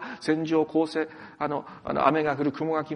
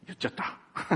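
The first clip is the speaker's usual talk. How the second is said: whisper. Real, not acted. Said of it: "あんまり大きな声で言えませんが".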